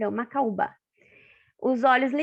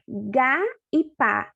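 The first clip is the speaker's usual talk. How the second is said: "Gá e pá" slowly, each syllable set apart; syllables sounded out; much slower than usual. Shown as a demonstration. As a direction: contrast "Gá" and "pá" as slow isolated sounds. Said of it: "tem o mesmo som?". ("Gá e pá" devagar, destacando cada som)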